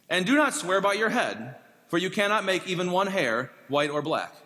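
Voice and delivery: measured, formal Bible reading voice; solemn reading from the pulpit; scripture reading. Acted. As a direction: read the passage aloud to the congregation. Scripture reading before sermon.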